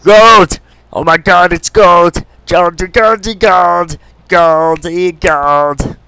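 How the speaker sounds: high, loud, giddy cries of "Goldy, goldy, gold"; gold frenzy. Real, not acted. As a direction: squeal over the treasure. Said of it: "I just love gold so much".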